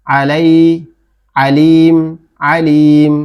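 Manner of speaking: আলাই and আলিম begun with a squeezed throat; আলিম with an Arabic ain, long final syllable; throat-pressed ain. Shown as a demonstration. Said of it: "একটু গলা চেপে বলতে হবে".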